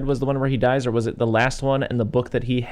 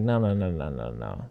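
mock refusal; 6 semitones lower, 4 dB quieter than usual. Acting the captor refusing his shortcut.

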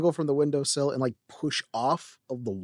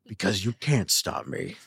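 slow, mock-menacing imitation; hammed-up ominous defiance; imitated menace; 2 semitones lower than usual. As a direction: draw it out like a threat. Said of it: "That's literally how it sounded".

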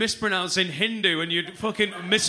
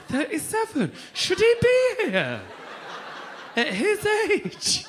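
mock scandalised youngsters; 13 semitones higher, slower than usual. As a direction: ham up shocked young clubbers. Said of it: "young people that are like".

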